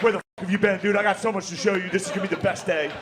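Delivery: high eager welcome home; excited like a dog. Acted. Greeting you when you get home, eager and high. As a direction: greet them like an overjoyed dog. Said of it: "they're like".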